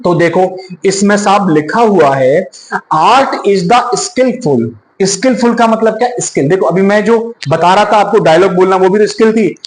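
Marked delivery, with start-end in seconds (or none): 3.0-4.7 slow reading aloud. Shown as a demonstration. Reads definition from slide.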